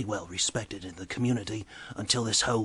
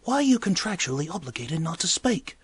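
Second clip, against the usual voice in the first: incredulous excitement; 8 semitones higher, 3 dB louder than usual. Retold or imitated. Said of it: "And I'm like".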